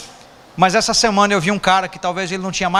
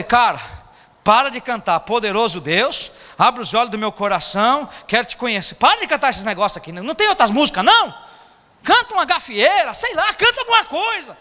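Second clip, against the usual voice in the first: exasperated, pitch climbing toward the end; nagging a friend to change his song; scolding a friend; 2 semitones higher than usual. Retold or imitated. Pastor scolding his friend over his song choice, rising exasperation. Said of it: "Um dia eu falei".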